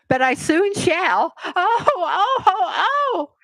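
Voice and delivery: screaming. A narrator's reading. Queen shrieking before pricking her finger, high and loud. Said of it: "Her screams were".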